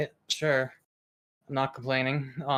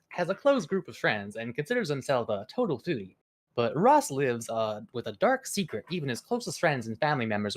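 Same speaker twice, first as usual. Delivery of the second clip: news anchor voice. Acted. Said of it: "news anchor voice".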